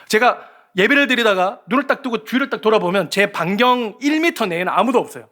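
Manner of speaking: ordinary delivery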